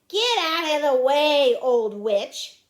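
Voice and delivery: loud, brusque order; yelled. Acted. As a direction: yell at someone blocking your path. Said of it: "yelled at Ramona".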